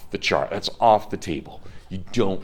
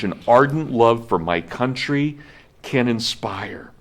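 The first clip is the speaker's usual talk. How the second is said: measured, stately reading of a historic address; formal speech reading. Acted. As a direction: read it like a solemn oration. Reads Washington's inaugural aloud.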